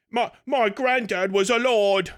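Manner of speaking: lightly mocked lordly London accent; a hint of fake London accent; put-on London accent. Ranter imitating a Scot claiming nobility, mock London accent. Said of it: "You don't talk like that".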